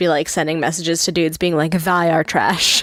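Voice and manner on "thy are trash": put-on old-timey, archaic thee-and-thou phrasing. Imagining her sending messages to guys, in put-on old-timey talk. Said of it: "she'd be still talk all old timey".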